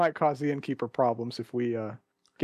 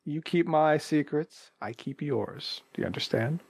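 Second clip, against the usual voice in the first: secretive bargain. Acted. Player bargains for secrecy in character.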